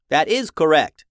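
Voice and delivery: put-on an old repair robot talking. A narrator's reading. Robot Randy speaks.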